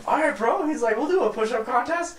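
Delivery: high, easy-going bro voice; Zach agreeing. Retold or imitated. Friend accepts the drunk dare, high bro voice. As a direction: play along like a chill friend.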